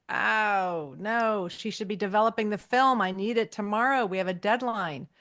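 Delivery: mock worry, lightly played; mild acted dismay. Allison learns the photographer is out, mildly acted dismay. Retold Allison frets over deadline.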